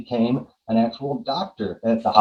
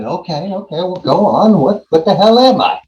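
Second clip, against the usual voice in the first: impatient demand; 7 semitones higher, 5 dB louder than usual. Retold or imitated. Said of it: "I said".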